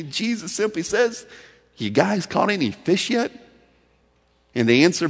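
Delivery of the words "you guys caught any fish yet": loving question. Retold or imitated. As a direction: ask it with compassion. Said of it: "Lovingly, compassionately".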